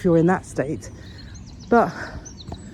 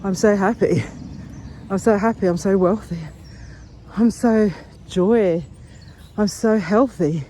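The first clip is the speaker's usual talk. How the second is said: affirmations. Shown as a demonstration. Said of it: "So I'm just saying".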